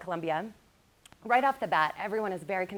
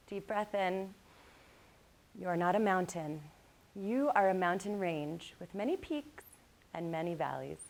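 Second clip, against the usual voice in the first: guided meditation. Acted. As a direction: ease them gently into calm. Leads a calming meditation.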